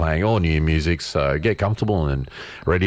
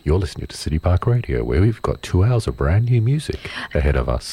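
low, smooth American radio host voice; lightly voiced American DJ; public radio host; 3 semitones lower than usual. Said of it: "American public radio host voice".

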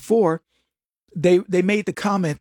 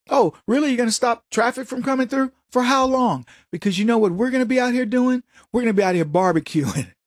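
mock taunting cop; 4 semitones higher than usual. SWAT mocking hostage taker.

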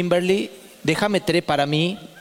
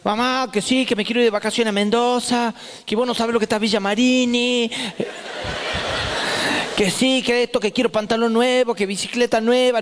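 put-on higher, nagging kid voice; whiny son; 5 semitones higher than usual. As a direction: whine like a pestering teenage son. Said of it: "llega Miguel Antonio y me empieza a hostigar".

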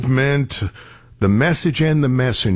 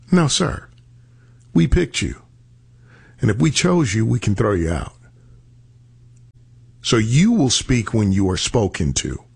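mock-indignant scolding in a retelling; retold scornful put-down. Party superior cuts rising politician down, scornful. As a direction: put the upstart in his place.

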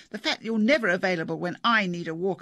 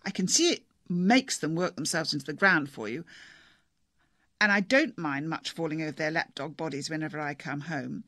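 angry wife. Acted. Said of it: "Missus Chase was still batting away upstairs".

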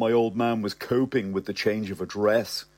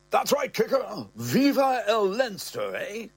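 put-on raised, hearty old-man voice; old man's voice; 10 semitones higher than usual. Father teasing his son, hearty voice. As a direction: play the father, pleased with himself.

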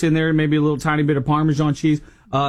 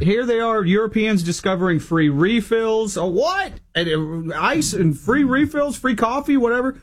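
light mock English accent, pitched up; 6 semitones higher than usual. Radio host mimicking giddy Europeans in English accent. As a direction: play the giddy European tourist. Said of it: "Did you just do the English accent?".

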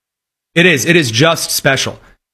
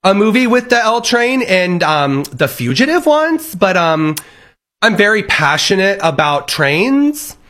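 mock ditzy persona; 3 semitones higher than usual. Mocking persona of train fan.

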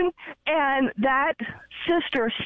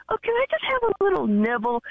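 coaxing plea; 8 semitones higher, faster than usual. Retold or imitated. Begging husband for a steak bite.

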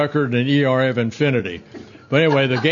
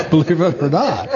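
laughing; 3 semitones higher than usual. Real, not acted. Laughs mid-sentence.

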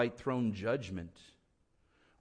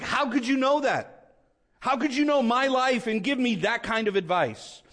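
high-pitched amazed questioning; awed disbelief, pitched well up; marvelling; 10 semitones higher, 5 dB louder than usual. Acted. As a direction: act out astonishment at such good advice. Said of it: "it makes you marvel".

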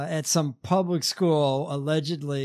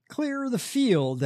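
mock preacher call; 7 semitones higher, slower than usual. Mocking preacher's battle cry.

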